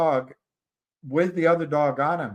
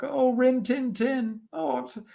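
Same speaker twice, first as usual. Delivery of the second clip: fussy woman's voice; 11 semitones higher than usual. Retold or imitated. Dog owner fussing over her dog, high flustered voice.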